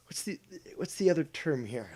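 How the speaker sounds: unvoiced whisper to himself; quiet self-aside. Real, not acted. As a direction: murmur the question under his breath. Searching for word aside.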